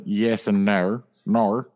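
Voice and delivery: "Nar" with an Australian r-like vowel. Shown as a demonstration. Demonstrating Australian for friends, no turned into "Nar". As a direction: bend no into "Nar", Australian style. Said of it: "That was an Australian no".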